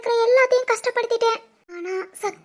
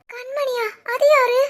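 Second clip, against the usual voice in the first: shocked question; 2 semitones higher, slower than usual. Acted. Girl shocked by new name.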